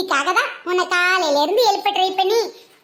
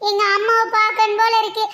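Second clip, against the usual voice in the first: tearful; 2 semitones higher than usual. Acted. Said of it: "அழுதுகிட்டே என்னடி இப்படி சொல்ற".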